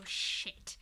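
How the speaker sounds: breathy whispered swear of dread; whispered curse. Retold or imitated. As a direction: breathe it out as the realisation hits. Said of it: "I read it and I go".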